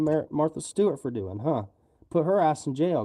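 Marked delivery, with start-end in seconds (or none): 2.1-3.0 angry outburst. Real, not acted. Angry rant at a politician.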